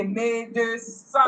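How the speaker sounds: slow "Médecin", first vowel as "ay"; accented e as A. Shown as a demonstration. Teacher modelling for the student, "Médecin" slowly with ay on é. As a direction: draw out "Médecin" with an A sound on é. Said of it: "The accent is A".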